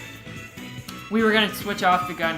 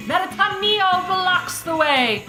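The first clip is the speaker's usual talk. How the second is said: dramatic narration; 10 semitones higher, slower than usual. Acted. Reading game text dramatically.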